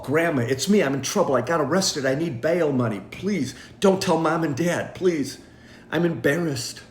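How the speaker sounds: pleading fake grandchild voice; tearful muffled scam call. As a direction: beg like a panicked grandkid.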